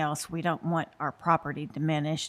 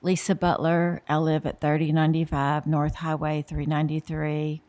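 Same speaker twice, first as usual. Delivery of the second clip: speaking up; 3 dB louder than usual. Real, not acted. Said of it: "Come a little bit closer to the".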